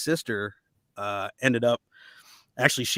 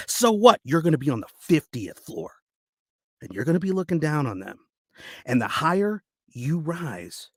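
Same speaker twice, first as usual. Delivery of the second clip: acted dramatic speech with heavy pauses; audition monologue; 5 semitones higher than usual. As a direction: urge them on bitterly, building in pitch and force.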